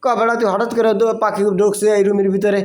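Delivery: high, excited scolding banter; excited teasing. Real, not acted. Teacher teasing the student over a bird in the room, excited.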